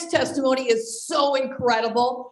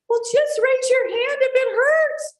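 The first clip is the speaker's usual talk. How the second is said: dental assistant; 12 semitones higher, 4 dB louder than usual. Retold or imitated.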